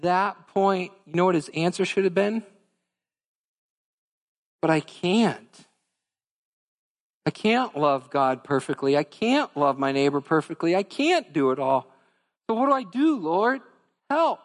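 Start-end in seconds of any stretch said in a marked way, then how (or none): 4.6-14.4 pleading. Acted. Pleading prayer in imagined answer.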